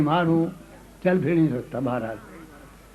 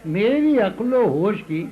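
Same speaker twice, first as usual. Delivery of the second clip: poem recital. Acted. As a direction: savour each line for the audience. Recites second qita.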